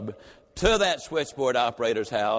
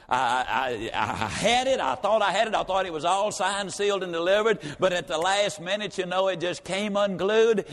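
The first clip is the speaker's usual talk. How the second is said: mock flustered employee explaining himself; flustered excuse; 4 semitones higher than usual. Sales manager excusing a lost deal to his boss, acted fluster. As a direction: stammer in, then higher and hurried-sounding.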